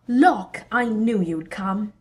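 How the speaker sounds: loud, slowed joyful welcome; joyful greeting. Acted. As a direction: burst out with joy. Thor greets Loki joyfully.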